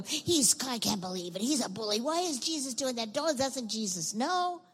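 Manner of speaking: mock crowd grumble, pitch jumping about; demonstrated grumbling. Shown as a demonstration. Preacher showing children how the crowd grumbled. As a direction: grumble indignantly for the kids to hear. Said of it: "grumbled real loud so the kids can know".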